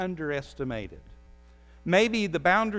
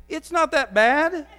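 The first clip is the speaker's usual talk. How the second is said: much higher and louder, slowed down, like you mean it; emphatic shout; 10 semitones higher, 8 dB louder than usual. Shown as a demonstration. Preacher urging the congregation, loud emphatic call. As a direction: belt it out like you truly mean it. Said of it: "So say it like you mean it".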